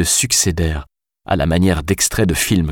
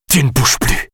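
sharp commanding shout; 8 semitones higher than usual. A narrator's reading. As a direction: bark the order at gunpoint. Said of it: "cria Alice".

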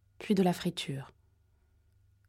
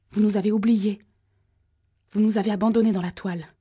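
louder, higher wail of rage; furious high whine; 4 semitones higher, 7 dB louder, faster than usual. Acted. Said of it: "un gémissement aigu, comme furieux".

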